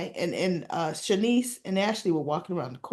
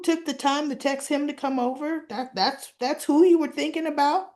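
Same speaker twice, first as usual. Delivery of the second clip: mock hurt accusation, rising in pitch; mildly accusing; 5 semitones higher than usual. Derek confronting Ashley about the night they broke up, mildly accusing. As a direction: build to an incredulous question. Acted quarrel between exes.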